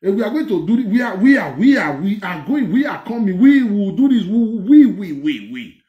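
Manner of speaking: mock boastful repetition of we are going; mocking the confessor. Mocking the confessing man's boast, a hint of imitation. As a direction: parrot the confessor's stammering boast, fading. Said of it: "the way he talk".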